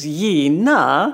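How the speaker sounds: Gina said the Swedish way, like Yeena. Shown as a demonstration. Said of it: "The way people said my name in Sweden".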